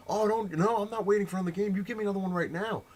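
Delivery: high, loud mock tantrum; retold flip-out. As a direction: imitate a kid refusing to wait. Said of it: "And he's flipping out".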